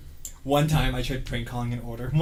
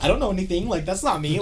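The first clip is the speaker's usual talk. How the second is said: higher-pitched protest of innocence; retold innocent denial; 7 semitones higher than usual. Teen denying the smoking to family, mock innocent. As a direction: plead ignorance in a higher voice.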